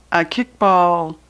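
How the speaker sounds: slow, syllable by syllable "a kickball tournament"; sounding out slowly. Shown as a demonstration. Reader sounding out the word as Junie B spells it. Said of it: "He's trying to spell it right".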